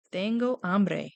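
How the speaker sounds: "Tengo hambre" said slowly and clearly; slow model phrase. Shown as a demonstration. Teacher models Kobe Jack's answer slowly. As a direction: spell it out slowly for kids. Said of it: "And then he would say".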